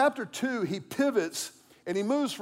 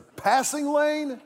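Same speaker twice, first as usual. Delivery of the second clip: higher and louder, half laughing at himself; mock road rage; 4 semitones higher, 4 dB louder than usual. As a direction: ham up the angry driver talking to himself. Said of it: "I was thinking".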